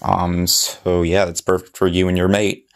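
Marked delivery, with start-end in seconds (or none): 1.2-2.7 slipping into a light Australian accent; a casual Aussie twang on mate. Real, not acted. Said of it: "did I just say that in an Australian accent?".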